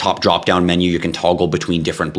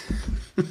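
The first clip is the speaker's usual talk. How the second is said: laugh; 11 dB quieter than usual. Real, not acted. Laughs after announcer impression.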